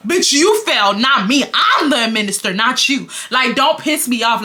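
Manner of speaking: heated telling-off; indignant. Acted. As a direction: throw the accusation back at him. Angry retort to the man.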